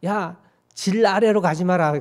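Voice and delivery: a hint of an old Gyeongsang grandmother scolding; mild grandma warning, 질 for 길; lightly voiced grandmother. Grandmother warning the kids off the rice paddy path, lightly voiced scolding. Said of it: "할머니가 그럽니다".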